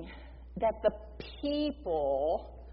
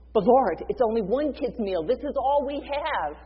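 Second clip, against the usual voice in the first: louder, urgent objection; pleading protest; 2 semitones higher, 4 dB louder than usual. Retold or imitated. Disciple protesting to Jesus about one meal, urgent. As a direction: push back in disbelief.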